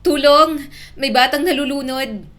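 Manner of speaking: loud, high cry for help; shouted alarm. A narrator's reading. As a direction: shout urgently to anyone nearby. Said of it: "may narinig siyang sigawan".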